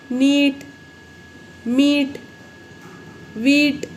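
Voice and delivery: usual speaking voice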